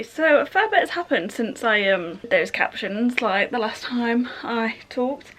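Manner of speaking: breathless after running up stairs; puffing between words; out of breath. Real, not acted. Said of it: "sorry, I'm out of breath".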